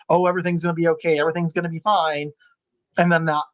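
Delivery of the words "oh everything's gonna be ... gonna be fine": mock platitude. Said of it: "we just wanna tell them that".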